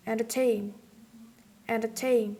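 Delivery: "entertain" with the last syllable, TAIN, stressed; stress on final syllable. Shown as a demonstration. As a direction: hit TAIN at the end of "entertain". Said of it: "First is the final syllable".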